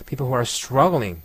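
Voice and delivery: teacher shows a light who; weak who. Shown as a demonstration. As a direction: glide over who, stress people. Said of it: "관계대명사는 약하게 발음합니다".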